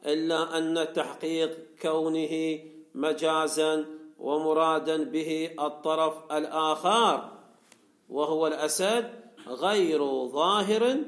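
slow, measured recitation of a classical text; formal text reading. Acted. Teacher reading the commentary to students, formal reading. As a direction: read it out slowly, phrase by phrase.

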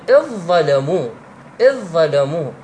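merged, doubled "إظّلموا"; dhal merged into dha. Shown as a demonstration. Teacher demonstrating idgham of dhal into dha. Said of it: "تقول".

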